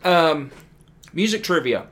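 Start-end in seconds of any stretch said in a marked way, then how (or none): 0.0-0.5 talking with food in mouth; mouth full. Real, not acted. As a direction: speak round a bite of snack. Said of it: "talking with my mouth full now".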